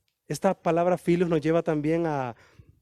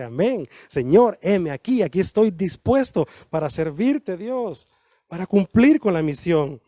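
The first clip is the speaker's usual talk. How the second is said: fervent response; 4 dB louder than usual. Acted. Someone answers with fervour.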